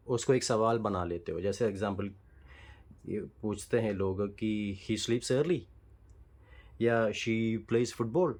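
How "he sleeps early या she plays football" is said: statement said with a rising tune as a question. Shown as a demonstration. Teacher demos the wrong rising-tone question. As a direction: make "he sleeps early" and "football" rise up like a question. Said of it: "तो क्या है आपकी tone से आप उसको एक सवाल की तरह बना लेते हो".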